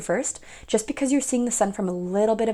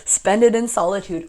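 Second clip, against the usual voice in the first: laughing; 7 dB louder than usual. Real, not acted. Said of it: "I'm just laughing so hard".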